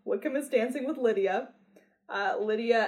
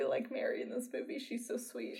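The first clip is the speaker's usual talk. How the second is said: whisper; 10 dB quieter than usual. Real, not acted. Whispered fan aside.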